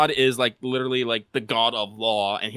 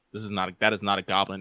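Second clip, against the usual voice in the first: lower, quick, matter-of-fact; Goblin Slayer deadpan; 5 semitones lower, 4 dB quieter, faster than usual. Acted. Hero staring at a giant alligator, deadpan. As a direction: drop the pitch and state it dryly. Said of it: "he is in his normal deadpan voice".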